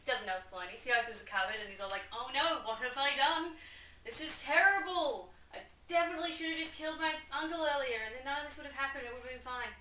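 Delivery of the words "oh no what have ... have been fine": high, loud melodramatic regret; mock horror. Hamlet finding he killed Polonius, in mock horror. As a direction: wail it, then hurry through the self-reproach.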